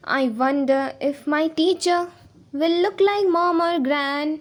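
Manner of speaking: slow, measured verse with stretched words; poem recitation. Shown as a demonstration. Teacher returning to the poem's lines, slow recitation. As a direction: draw each line out evenly.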